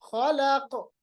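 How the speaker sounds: खलक stopped on a bouncing q; qalqalah. Shown as a demonstration. Teacher shows the word-final case, खलक with echoed q. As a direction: end खलक in a short echo "khalaqo". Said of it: "खलक को कैसे पढ़ेंगे?".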